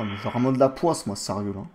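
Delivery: grumbling fake rebeu French accent; put-on rebeu accent. Customer grumbling about the botched order, put-on rebeu accent. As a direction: complain along in a mock rebeu accent. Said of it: "mon accent".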